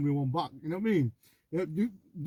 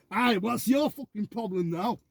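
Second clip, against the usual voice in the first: lightly put-on Scottish accent, raised pitch; 5 semitones higher, slower than usual. Warning off troublemakers for his mate, mock-confrontational Scottish accent. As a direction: square up in a slightly Scottish accent. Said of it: "I'm gonna use my Scottish accent".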